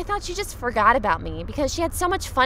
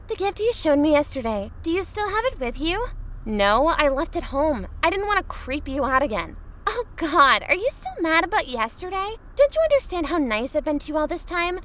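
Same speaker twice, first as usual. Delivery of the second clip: higher, fake-sweet girl; bratty girl voice; 6 semitones higher than usual. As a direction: guilt him sweetly. S0 voices Vanessa.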